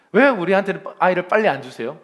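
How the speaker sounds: loud, aggrieved plea to God; play-acted impatient protest; mock complaint. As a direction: demand an answer like a grumbler. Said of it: "불평불만하죠".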